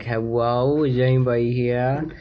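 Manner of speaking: put-on little baby voice. Pranking strangers in an Xbox party, baby voice. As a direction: play a small child, babyish and innocent. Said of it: "we wanna do a little baby voice".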